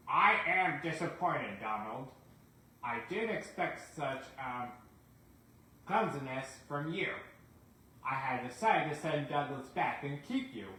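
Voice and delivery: a hint of a disappointed railway chief; stern controller. Sir Topham Hatt scolds Donald.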